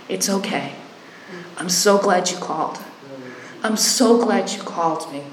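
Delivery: gentle, calm reassurance; reassuring. Retold or imitated. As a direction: soothe the frightened caller. Comforting caller.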